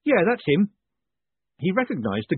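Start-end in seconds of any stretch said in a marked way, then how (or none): 0.0-0.7 loud, high call across the street; shout. A narrator's reading. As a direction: shout him out. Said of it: "one of them shouted".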